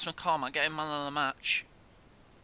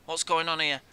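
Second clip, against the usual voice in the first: alarmed; 2 semitones higher, 6 dB louder than usual. Real, not acted. Match going wrong.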